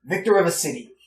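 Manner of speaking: put-on proud patriotic old gentleman; old gentleman chatting with the freed slave, hearty; a hint of the blustering old officer. Old gentleman lectures politics.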